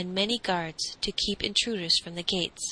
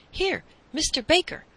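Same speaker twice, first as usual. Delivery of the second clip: high-pitched, excited hail; raised pitch, eager summons; excited call; 9 semitones higher, 4 dB louder than usual. A narrator's reading. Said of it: "the man called excitedly".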